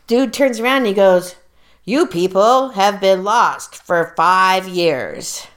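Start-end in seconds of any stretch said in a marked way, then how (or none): 1.8-5.5 slow, stern pronouncement; stern official. Retold or imitated. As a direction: lay down the news slowly and sternly. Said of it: "In a very stern voice".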